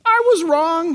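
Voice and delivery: lightly voiced Spock crying out he was wrong; Doctor Spock admitting. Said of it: "Doctor Spock said".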